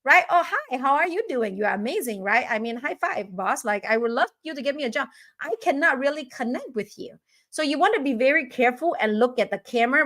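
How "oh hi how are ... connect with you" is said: mock overeager applicant. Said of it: "Or sometimes you do this".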